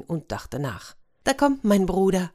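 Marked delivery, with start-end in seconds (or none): 1.2-2.3 lightly called, higher pitched; calling out. Acted. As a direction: announce an arrival with a raised voice. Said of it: "rief Tausendschön". (rufend, mit gehobener Stimme)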